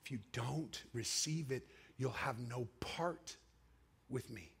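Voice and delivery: hushed, low and deliberate; solemn Spirit voice. Retold or imitated. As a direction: speak softly and gravely, with weighty pauses. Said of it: "But the Spirit spoke".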